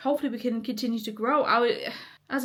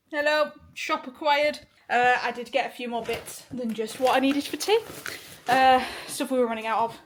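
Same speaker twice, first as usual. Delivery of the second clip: out of breath; 2 semitones higher than usual. Real, not acted. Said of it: "Why am I out of breath?".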